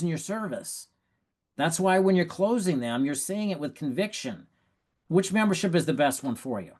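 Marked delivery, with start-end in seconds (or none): 5.1-6.7 steady, sure question with no hedging; confident close. Shown as a demonstration. Coach showing a rep the right way to close, confident. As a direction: ask it like the answer is obvious. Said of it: "That's the way you say it".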